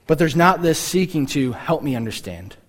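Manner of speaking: ordinary talk, nothing marked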